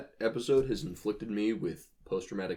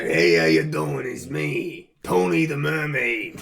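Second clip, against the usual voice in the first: seductive voice; 4 semitones higher, 6 dB louder than usual. Pretend. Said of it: "am I going to be seduced by a".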